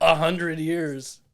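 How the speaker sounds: pro wrestler voice; slow booming wrestler delivery; deep voice. Pretend. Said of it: "Why'd you go deep voice on that?".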